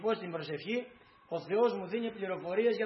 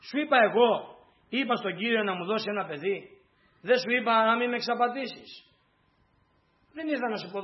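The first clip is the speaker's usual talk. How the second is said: pained reproach; 2 semitones higher than usual. Acted. Woman's complaint voiced to prophet.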